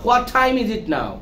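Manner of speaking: slow question with a puffed t in "time"; slow down, puff air on "time"; aspirated T. Shown as a demonstration. Teacher modelling for repetition, slow aspirated t in "time". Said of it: "ঠি উচ্চারণ করার সময়".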